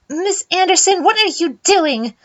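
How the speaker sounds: a teacher stopping a fight; startled teacher. Acted.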